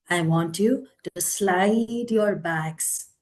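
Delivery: guided relaxation. Acted. Yoga teacher settling participants into a comfortable position, guided relaxation. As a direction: ease them into relaxation, stretching the soothing words.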